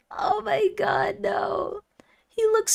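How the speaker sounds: slow, breathy whisper in shock. Real, not acted. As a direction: whisper it, overwhelmed. Stunned by the edit.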